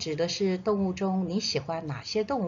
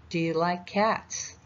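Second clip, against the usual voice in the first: slow teaching read. Shown as a demonstration. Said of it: "所以我们一起念一次".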